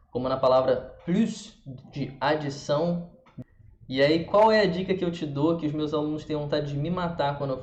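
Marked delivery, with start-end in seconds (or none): 1.0-1.6 plus ending in an audible S; French plus with rounded U and final S; pronounced final S. Shown as a demonstration. Teacher giving an exception, plus with S sounded. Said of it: "algumas vezes ser pronunciado".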